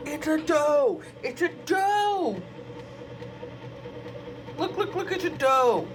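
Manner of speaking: very high, thrilled sing-song; excited squeal. Real, not acted. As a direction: squeal with joy.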